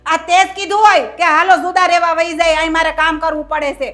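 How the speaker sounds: loud, sharp accusation; mother-in-law loudly blaming her daughter-in-law; angry accusing. Acted. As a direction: hurl the blame at her.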